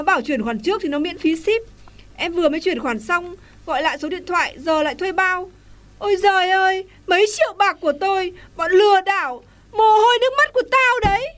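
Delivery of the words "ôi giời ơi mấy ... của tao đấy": wailing outcry. Acted. Wailing over stolen money.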